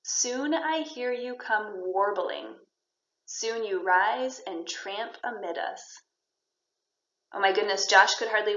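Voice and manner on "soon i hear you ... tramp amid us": slow, drawn-out verse reading; poem reading. Shown as a demonstration. Teacher reading a line for the class to guess, slow verse. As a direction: give each word of the verse room. Reads poem lines aloud.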